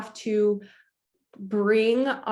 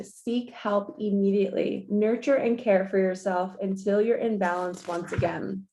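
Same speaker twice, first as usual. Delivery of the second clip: card reading. Acted. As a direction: read the daily message out to viewers, measured and soothing. Reads the daily card.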